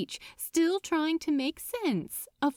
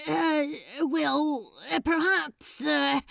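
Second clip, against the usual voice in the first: hesitant Crowley; 5 semitones higher than usual. Acted. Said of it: "he tried again".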